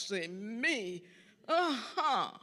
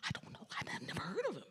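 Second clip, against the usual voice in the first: retold whisper; 9 dB quieter, much faster than usual. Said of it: "they whispered amongst themselves".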